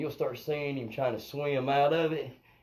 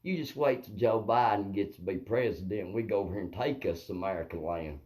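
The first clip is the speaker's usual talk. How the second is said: lower, lightly voiced sly cartoon wolf; cartoon wolf scheming; 4 semitones lower than usual. Russia and Turkey plotting over America, lightly imitated wolf. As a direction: plot like a conniving cartoon wolf. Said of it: "like that wolf in that cartoon".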